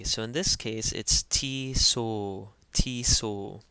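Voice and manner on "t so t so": "T so" slowly as tee-soh. Shown as a demonstration. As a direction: sound out "T so" in two measured syllables. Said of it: "pronounced as T".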